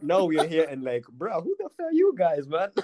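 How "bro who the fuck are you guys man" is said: mock cool kid sneer. Mocking cool kids at party.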